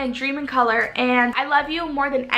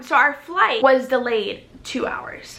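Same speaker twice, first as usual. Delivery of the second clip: slow, very calm delivery; forced calm. Shown as a demonstration. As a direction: say it really calmly and slowly. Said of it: "I'm gonna say this really calm".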